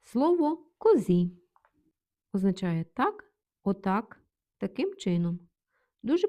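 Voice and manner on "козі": козі with the last І raised and stressed; stress on final І. Shown as a demonstration. Teacher introducing a new word, stress on final І. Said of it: "Наголос на І".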